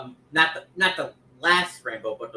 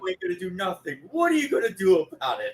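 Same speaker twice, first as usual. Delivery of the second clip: higher-pitched wrestler taunt impression; lightly voiced challenge, imitating a wrestler; Kevin Nash; 5 semitones higher than usual. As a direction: goad them in a put-on voice. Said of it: "remember, uh, Kevin Nash?".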